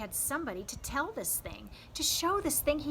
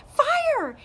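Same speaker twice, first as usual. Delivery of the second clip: loud high shout of joy; loud, high triumphant yell; 14 dB louder than usual. A narrator's reading. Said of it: "he yelled".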